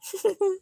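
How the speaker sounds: high, breathy chuckle; brief giggle under the breath; small laugh. Real, not acted. Streamer joking about a record of likes, small giggle.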